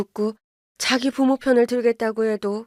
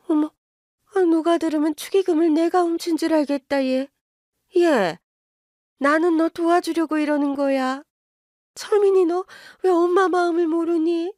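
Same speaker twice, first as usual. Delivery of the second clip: higher, scolding mother berating her son; mother scolding her son for siding with in-laws, higher and indignant; 7 semitones higher than usual. Acted. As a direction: nag him, pitch climbing with outrage. Mother voice again.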